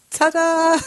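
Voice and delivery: high, loud showman's ta-da; ta-da fanfare. Pretend. Teacher presenting a student's entrance, loud fanfare. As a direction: fling it out like a fanfare. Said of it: "I love that".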